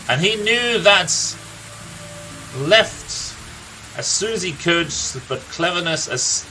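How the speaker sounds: a lightly voiced grizzled old storyteller, unhurried; a gruff old warrior recounting his friend's youth; storyteller NPC. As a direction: tell the tale like a weary veteran by the fire. NPC tells the uncle's story.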